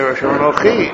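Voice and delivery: "Asher Anochi" rushed so the aleph vanishes; swallowed aleph. Shown as a demonstration. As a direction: run "Asher" into "Anochi" fast. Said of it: "you'll lose the aleph".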